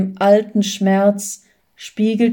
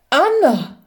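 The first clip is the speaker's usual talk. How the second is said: a high, disbelieving cry of her name; stunned call; 6 semitones higher than usual. Acted. Husband stunned to see his wife home, calling her name high. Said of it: "rief er fassungslos".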